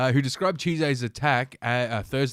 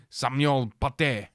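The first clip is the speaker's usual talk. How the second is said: put-on French accent; slower than usual. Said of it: "I'll get my French accent going".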